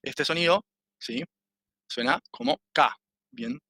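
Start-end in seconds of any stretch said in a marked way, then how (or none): 2.7-2.9 "K" said as "ka", alone; demonstrated syllable. Shown as a demonstration. Teacher showing how the sound goes, "K" as an isolated "ka". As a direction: model "K" as a clear open "ka". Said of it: "A ver cómo suena esto".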